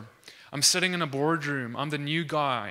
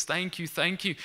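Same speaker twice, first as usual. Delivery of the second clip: higher-pitched, repeated grateful thanks; excited thanks; 4 semitones higher than usual. Retold or imitated. Healed man thanks those who prayed for his wrist, lightly acted excitement. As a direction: imitate someone brimming with gratitude. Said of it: "he's so excited".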